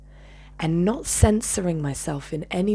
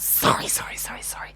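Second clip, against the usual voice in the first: hissed mocking echo, trailing off softer; vicious mockery; 4 dB quieter than usual. Speaker mimicking apologies to the woman, vicious mockery. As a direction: throw the apology back with spite. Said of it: "Vicious, vicious I was".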